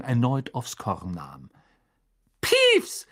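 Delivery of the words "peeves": a high, loud furious call; angry shout. Acted. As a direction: yell the name up at him. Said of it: "rief eine zornige Stimme". (zorniger Ruf, hoch und laut)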